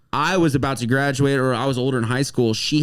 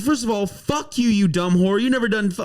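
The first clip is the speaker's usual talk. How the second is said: mock angry comeback; 7 semitones higher than usual. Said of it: "I went fucking off on her".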